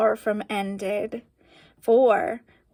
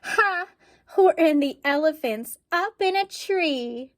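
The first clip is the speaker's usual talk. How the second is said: high mocking jeer; gleeful taunt; 5 semitones higher than usual. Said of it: "they shouted with glee".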